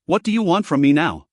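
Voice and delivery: put-on gruff, weary old mage. A narrator's reading. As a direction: grumble it out gruffly. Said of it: "he said in a gruff voice".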